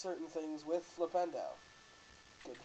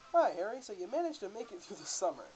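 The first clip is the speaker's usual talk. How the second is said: put-on British accent; 4 semitones higher, faster than usual. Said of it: "butcher you guys with my British accents".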